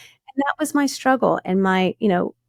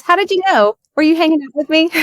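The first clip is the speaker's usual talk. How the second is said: amused disbelief; 8 semitones higher, 5 dB louder, faster than usual. Real, not acted. Amused at interviewer's guess.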